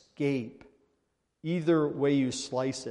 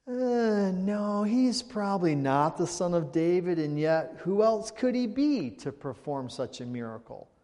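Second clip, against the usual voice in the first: higher, hesitant voice of a doubting onlooker; crowd wondering aloud; 4 semitones higher than usual. Retold or imitated. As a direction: voice the crowd half-convinced, unsure. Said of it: "We could say".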